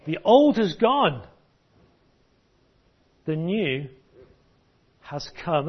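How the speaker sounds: slow, weighty reading of the verse; emphatic recitation. Acted. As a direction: give every word weight, especially old. Preacher recites memory verse.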